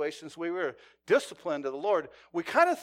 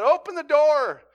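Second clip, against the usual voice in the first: loud, higher, commanding call; firm order; 8 semitones higher, 12 dB louder than usual. Retold or imitated. Negotiator telling the man to open up, loud order. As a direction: give the order clearly across distance.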